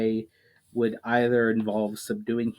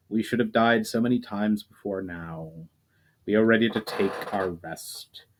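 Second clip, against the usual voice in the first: weary ancient spirit. Acted. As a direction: gently accept your end, at peace. Ancient elemental Marames speaks.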